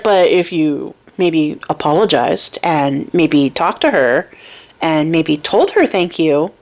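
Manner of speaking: put-on slow it down, gentle old man counsel; old man's advice.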